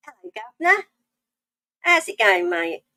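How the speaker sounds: playful urban London English greeting; cheeky mock London accent. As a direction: lay on a bit of London street English. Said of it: "urban English lesson".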